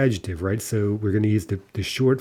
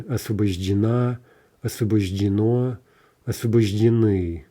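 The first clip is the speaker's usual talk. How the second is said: освобождена, освобождено, освобождены stressed on the last vowel; end stress. Shown as a demonstration. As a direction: hold back the stress until the endings of освобождена, освобождено, освобождены. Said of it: "end stress".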